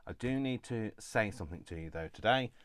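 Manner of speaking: muffled behind a face mask. Real, not acted. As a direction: speak through a mask, muffled. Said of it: "if I sound like I'm muffled, it's probably because I am".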